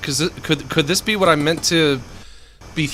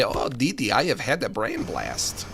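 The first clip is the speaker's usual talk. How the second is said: mock genius quote; 3 semitones lower, 7 dB quieter than usual. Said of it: "He wouldn't say".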